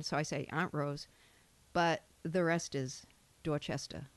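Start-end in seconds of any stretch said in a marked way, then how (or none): 0.5-1.1 lower-pitched Boston Brahmin accent. Shown as a demonstration. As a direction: show the Brahmin way of saying Aunt Rose. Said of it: "we're about twenty percent Brahmin".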